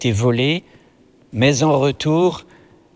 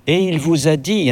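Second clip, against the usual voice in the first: lightly amused, higher-pitched interjection; gently knowing, pitched up; smiling interruption; 6 semitones higher than usual. A narrator's reading. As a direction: cut in with a smile in the voice. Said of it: "interrompit l'évêque en souriant".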